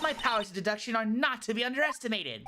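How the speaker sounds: indignant witness. Acted. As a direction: declare it with wounded pride. Voices indignant boasting witness.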